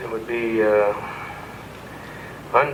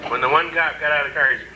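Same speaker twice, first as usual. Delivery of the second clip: ordinary delivery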